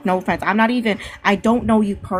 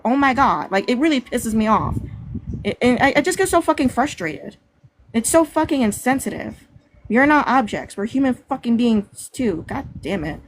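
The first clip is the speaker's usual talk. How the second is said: frustrated anger; 3 semitones higher than usual. Real, not acted. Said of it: "I'm getting fucking angry again".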